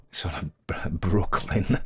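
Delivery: slow, breathy whispered laugh through the word. Real, not acted. Host admitting a silly accent, laughing whisper. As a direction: giggle it out under your breath.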